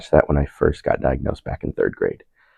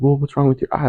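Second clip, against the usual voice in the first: imitating the lady; 9 semitones higher, 4 dB quieter, faster than usual. Lady voiced in retold story.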